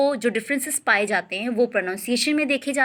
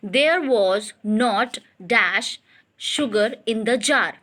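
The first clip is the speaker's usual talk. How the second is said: slow exercise reading; much slower than usual. Acted. Reads exercise sentence aloud.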